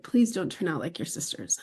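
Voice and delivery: hushed tearful plea, barely voiced; whispered sob. Father at his daughter's bedside, whispering through tears. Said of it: "crying, sobbing".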